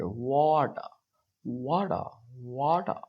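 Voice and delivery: British water, no R at the end; British accent. Shown as a demonstration. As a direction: say it the British way, dropping the R. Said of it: "अब British वाले इसको ऐसे पढ़ेंगे".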